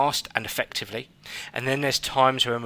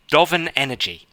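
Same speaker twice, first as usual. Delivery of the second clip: a playful attempt at a Danish accent, a little higher; 4 semitones higher, 4 dB louder than usual. Host tries a Danish accent on the guest's book title, playful mock Danish accent. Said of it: "I'm gonna do my finest, uh, Danish accent here".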